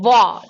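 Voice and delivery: "wa" sounded out alone, with a w onset; wa as a short lone syllable; sound demonstration. Shown as a demonstration. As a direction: isolate wa, the opening sound of "one". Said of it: "The sound is wa".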